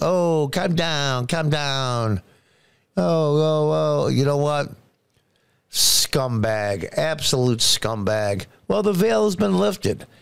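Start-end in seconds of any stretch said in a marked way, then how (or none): 0.0-4.1 put-on fake Spanish accent, higher pitch. Imitating Ocasio-Cortez mocking protesters: Ocasio-Cortez fake Hispanic accent. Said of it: "She has a fake Hispanic accent, like".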